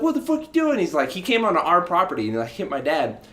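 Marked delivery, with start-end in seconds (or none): 0.0-0.8 high-pitched mock-angry demand; indignant, high retold shout; imitated yelling. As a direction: act out dad confronting the man. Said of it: "like, yelling. My dad's like".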